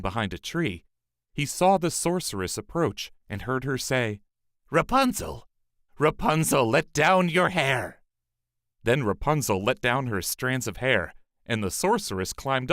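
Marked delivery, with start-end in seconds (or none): 4.7-8.0 a witch calling to the window. A narrator's reading. Sorceress calling up to Rapunzel, loud.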